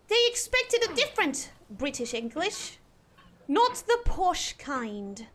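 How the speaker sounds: attempted cut-glass British English; amateur Queen's English, carefully enunciated; posh British accent.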